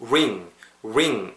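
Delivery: "ring" modelled slowly with a rounded R. Shown as a demonstration. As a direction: RING with lips rounded as if starting from "oo". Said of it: "약간 우 발음을 부은다고 생각하세요".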